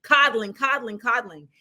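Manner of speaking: mock weary. Real, not acted. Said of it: "Y'all see what women have to do?".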